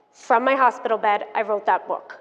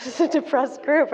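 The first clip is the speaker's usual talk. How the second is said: ordinary talk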